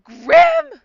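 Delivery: loud, high shout for the bird; calling out. Acted. Character calling her lost bird Grim, shouting. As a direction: yell the bird's name into the fog.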